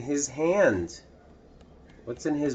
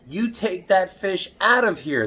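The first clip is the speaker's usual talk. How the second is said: angry yell; 8 semitones higher than usual. Acted. Swimmers yelling at the boy, angry and high. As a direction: shoo the fish away angrily. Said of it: "they yelled".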